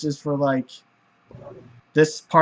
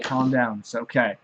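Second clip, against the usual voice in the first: soft lower calming voice; soothing; 5 semitones lower, 5 dB quieter than usual. Acted. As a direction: settle him down gently. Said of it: "starts to try to soothe him".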